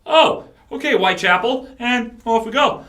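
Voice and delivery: high, loud reaction of sudden realization; impressed surprise. Retold or imitated. Bandmate retells hearing the singer, pleasantly surprised. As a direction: act out being won over on the spot.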